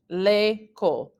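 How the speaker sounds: "L'école" slowly, still joined as lay-kohl; words squished together. Shown as a demonstration. French teacher repeating an example, "L'école" slow and run together. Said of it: "those two words are squished together".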